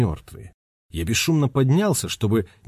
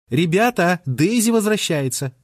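higher call to the group; excited call; 8 semitones higher than usual. A narrator's reading. Tikaani calls friends to see Daisy return, excited. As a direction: spot her and call everyone over. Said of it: "воскликнула зоркая Тикаани".

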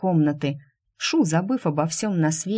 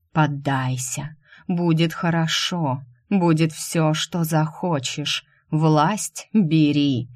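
tempting deity; slower than usual. Acted. Dark deity tempts Shu with power, slow looming voice. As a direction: press the offer like a god bending her will. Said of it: "Голос божества взвился, сминая волю, обещая, угрожая".

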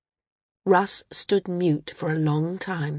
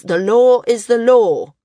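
stern insistence; 5 semitones higher, 9 dB louder than usual. A narrator's reading. Stubborn elder insists.

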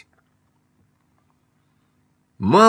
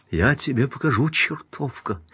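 high, softer menacing voice; angry threat; 5 semitones higher, 4 dB quieter than usual. A narrator's reading. Wife threatens her rival behind the door, angry. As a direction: threaten in a high, lightly acted fury.

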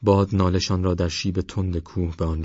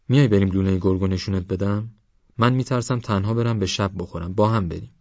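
lightly voiced youngster coaxing a companion; a hint of eager pleading; coaxing young Parvaz; 2 semitones higher than usual.

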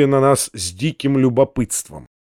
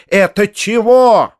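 higher, slow, indignant cry; angry shout; 5 semitones higher, 4 dB louder, slower than usual. A narrator's reading. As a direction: burst in furious and demanding. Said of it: "закричала она". (гневный выкрик, медленно)

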